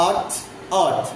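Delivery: আর্থ with a slightly shorter আ. Shown as a demonstration. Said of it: "This আ is little less elongated".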